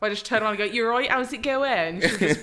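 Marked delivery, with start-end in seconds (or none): 0.7-2.0 loud, higher Bristolian greeting; Bristolian accent. Acted. Turning to greet an American girl, Bristolian accent. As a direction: greet her in broad Bristolian, playing it up. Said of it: "trying not to do a Bristolian accent".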